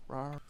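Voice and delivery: mock little "rawr" growl; cringey growl. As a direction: give a playful, cringey rawr. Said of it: "growl there".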